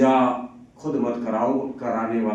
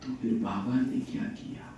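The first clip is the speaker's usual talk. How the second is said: lovingly; 8 dB quieter than usual. Retold or imitated. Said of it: "बाबा बड़े प्यार से बोलता है".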